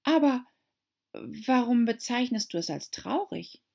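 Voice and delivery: put-on high, eager young girl voice; pleading girl reminding the mouse; Alice's voice. A narrator's reading. Alice to the mouse, high eager girl.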